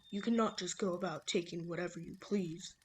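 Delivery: lightly voiced old man; amateur old-man impression; man imitation. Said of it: "my horrible man imitation".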